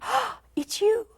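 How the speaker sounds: high, slow delighted greeting; light up at someone you love. Retold or imitated. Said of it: "it's like".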